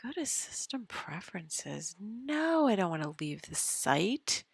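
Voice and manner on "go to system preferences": whisper. Real, not acted. Whispering to self.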